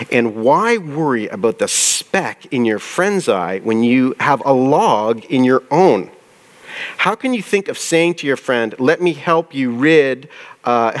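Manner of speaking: slow, deliberate Bible reading; preacher reading the verse to the congregation, slow; scripture reading. Shown as a demonstration. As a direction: read it out slowly, picturing the log. Reads the verse aloud.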